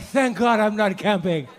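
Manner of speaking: slow, relieved, half laughing; relieved sigh. Retold or imitated. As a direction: breathe it out like a prayer of thanks. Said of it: "I'm like".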